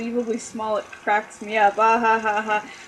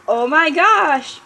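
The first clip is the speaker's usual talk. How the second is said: angry yell; 5 semitones higher, 7 dB louder, slower than usual. Acted. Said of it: "yelled Sunflora in an angry voice".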